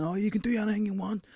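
high, put-on upbeat voice; imitating friend. Retelling his friend's advice, cheerful. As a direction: mimic a cheerful optimist. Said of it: "he was saying".

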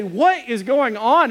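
retold bewildered husband; exasperated demand. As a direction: space the words out, at a loss. Retold husband facing wailing wife.

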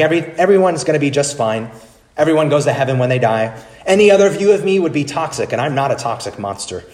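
Rob Bell impression. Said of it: "He should say something like".

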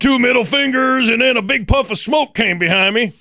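excited. Retold or imitated. Excited mock boast.

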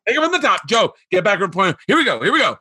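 rally yourself for another take, imitated; acted restart.

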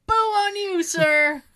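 booing shout; heckling yell. Acted. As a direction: holler it at a celebrity as you walk past. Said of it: "just yell".

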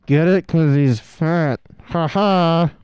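heavy-handed punchline with a fake laugh; mock jokester. Mocking the movie's fat jokes, hammy fake-laughing delivery. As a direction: spell out the joke loudly, slowing right down.

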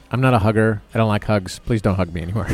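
low, terse boundary-setting; terse refusal. Shown as a demonstration. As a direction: state it tersely, pitch dropping as you go. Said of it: "needs to be that terse".

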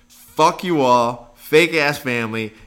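hammed-up slow furious retort; mock angry outburst. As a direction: spit it out like an offended parent. Mock-voicing the family's critic.

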